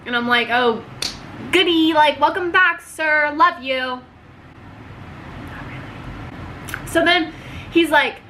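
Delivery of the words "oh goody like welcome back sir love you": sarcastic cheer. Retold or imitated. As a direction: fake delight at an unwanted guest. Fake cheerful greeting, then "not really.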